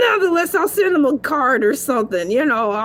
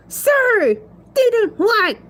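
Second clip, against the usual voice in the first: dictating to phone; 4 semitones higher than usual. Acted. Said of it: "Siri texts Uncle Willie".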